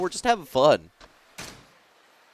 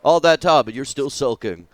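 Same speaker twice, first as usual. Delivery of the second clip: a hint of a gruff yakuza reading his lines; lightly voiced yakuza boss, teasing. Voicing the game character over the Japanese dialogue, lightly gruff. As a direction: read the subtitles as a mocking tough guy.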